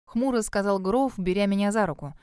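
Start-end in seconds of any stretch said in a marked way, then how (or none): none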